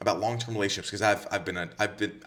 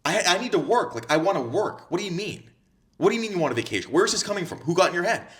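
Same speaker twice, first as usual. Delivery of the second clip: mock exasperated boyfriend; 7 semitones higher than usual. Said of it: "And I'm like".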